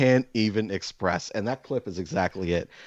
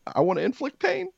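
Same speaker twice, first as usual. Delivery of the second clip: manic laugh. Real, not acted. Laughing about wanting to hurt someone.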